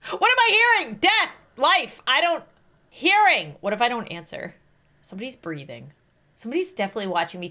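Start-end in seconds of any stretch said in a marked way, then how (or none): 5.0-7.5 much softer, lower, hushed. Real, not acted. Noticing someone breathing nearby, hushed and uneasy. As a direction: drop to a hush as if someone is listening. Hears breathing in creepy quiz.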